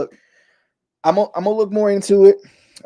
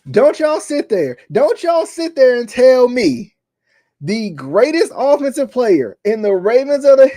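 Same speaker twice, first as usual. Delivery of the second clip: heated rant; 4 semitones higher, 4 dB louder than usual. Real, not acted. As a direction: drag it out, real exasperation. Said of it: "'cause I'm getting too emotional".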